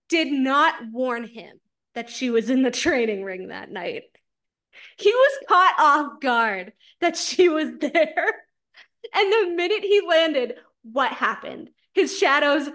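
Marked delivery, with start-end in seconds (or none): 5.0-10.6 laughing through the words; can barely get it out for laughing. Real, not acted. Friend retelling a book scene, laughing.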